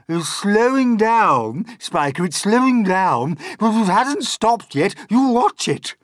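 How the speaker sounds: high, loud argument; excited shouting. A narrator's reading. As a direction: shout your point to the other aunt. Aunts bickering loudly about the peach.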